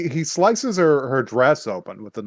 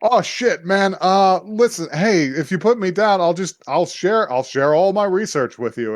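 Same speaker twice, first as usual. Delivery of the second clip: higher-pitched pleading, lightly hammed up; mock panicked bargaining; 6 semitones higher than usual. Caught man offers research to be put down, mock panicked pleading. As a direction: imitate someone talking fast to save himself. Victim bargaining while lifted off ground.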